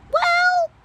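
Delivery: sudden high-pitched squeal. Real, not acted. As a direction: let out a startled shriek.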